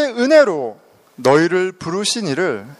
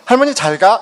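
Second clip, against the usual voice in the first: higher, lightly voiced child's goodbye; imitated grandchild; 5 semitones higher, 4 dB louder than usual. Grandchild seeing grandma off, lightly imitated child voice. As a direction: give a small child's casual bye. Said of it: "할머니 가시는데 한이가".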